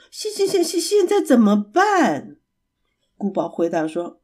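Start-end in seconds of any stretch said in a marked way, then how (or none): 0.1-2.4 higher stammer, shivering with cold; teeth chattering. Acted. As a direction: stutter through chattering teeth. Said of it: "牙齿咔咔咔地打颤". (冷得发抖结巴地说)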